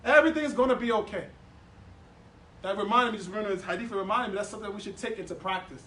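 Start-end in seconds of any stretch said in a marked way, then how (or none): 0.0-1.3 1 reassuring friend. Retold or imitated. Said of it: "Person telling you".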